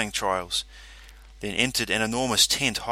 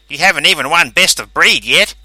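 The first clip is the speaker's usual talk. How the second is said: stern character voice; 6 semitones higher, 12 dB louder than usual. Acted. Calverley scolds brain.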